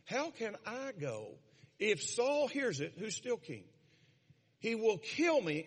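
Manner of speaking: slow, anxious "How can I go?"; a touch of worried Samuel. Retold or imitated. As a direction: ask it as a man who fears for his life, understated. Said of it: "And Samuel said".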